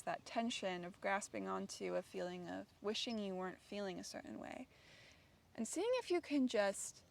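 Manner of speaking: calm guiding, spaced by long pauses; guided meditation. Real, not acted. Yoga teacher guides students to meet hard feelings, guided meditation.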